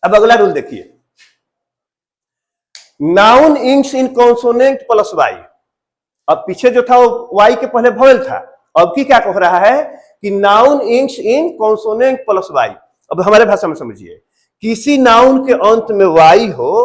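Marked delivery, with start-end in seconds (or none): 3.0-5.3 very slow, each word set apart; slow dictation. Shown as a demonstration. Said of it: "teacher dictating rule slowly". 10.3-12.7 slow dictation. Shown as a demonstration. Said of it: "teacher repeating rule slowly".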